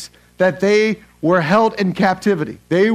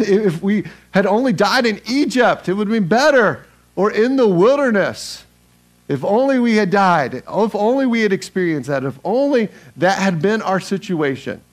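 raised-pitch mock griping; grumbling complaint; 3 semitones higher than usual. Israelites wishing they had died in Egypt, complaining. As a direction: act out a complaining crowd, pitched up.

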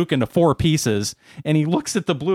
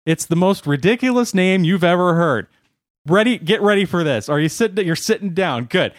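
gleeful buildup; 5 semitones higher than usual. Acted. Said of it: "He says".

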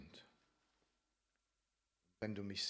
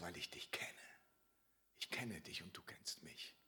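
very soft, lowered praying voice; quiet prayer; 2 semitones lower, 8 dB quieter than usual. Acted. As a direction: pray it intimately, almost under the breath. Spricht Jesu Gebet zum Vater. (leises, inniges Gebet)

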